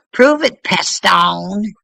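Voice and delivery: "Prove it" shouted high with a rising end; loud challenge. Real, not acted. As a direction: throw it at them as a dare. Challenging a critic.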